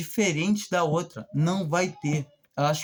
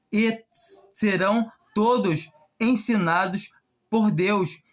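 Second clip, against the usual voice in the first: solemn scripture reading. Acted. Preacher reads John to the congregation, solemn and measured. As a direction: read it like holy words, letting each phrase land.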